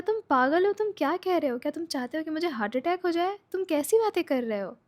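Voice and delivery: high, startled mock outburst; shocked disbelief. Fu reacting to being asked for a rating, shocked. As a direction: blurt it out in disbelief.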